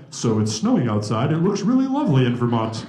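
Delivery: lightly put-on polite small talk; proper other side. Speaker showing his other side, lightly overdone proper talk. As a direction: make mannered, genteel weather chat. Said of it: "And then the other side".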